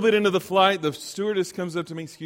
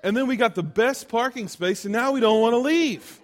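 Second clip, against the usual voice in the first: a touch higher, chirpy proud dad; chipper dad voice; 4 semitones higher than usual. Retold or imitated. Son retells his dad on the phone, lightly voiced chipper dad. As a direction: play the pleased father who got the best parking space. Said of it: "He goes".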